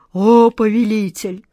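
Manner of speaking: shaky frightened plea; trembling voice. A narrator's reading. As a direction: cry out in fear to your master. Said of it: "проговорил Джин дрожащим голосом". (дрожащим голосом)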